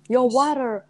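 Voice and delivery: imitated New York Italian greeting; New York Italian accent. Imitating how local Italians greet them, New York Italian accent. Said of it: "And they're Italians here".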